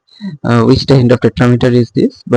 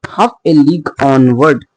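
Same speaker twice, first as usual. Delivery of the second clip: "league" and the "on" of "onward" stressed. Shown as a demonstration. Teacher marking the feet in a poem line, stressing "league" and "on". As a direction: scan it, leaning on "league" and "on". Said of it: "then the stress is on on".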